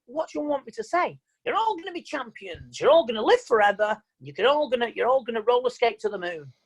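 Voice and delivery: sarcastic comeback to a complaint; mock promise. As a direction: promise the impossible with mock exasperation. Mock reply to complaining coach.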